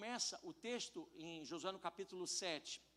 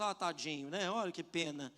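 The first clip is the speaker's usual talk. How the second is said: mock pity; 4 semitones lower than usual. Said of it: "como se Deus olhasse e falasse".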